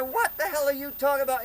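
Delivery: high, loud demand; acted-out exasperated yell; retold shouted challenge. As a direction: argue back at the heckler. Acted shouting match with heckler.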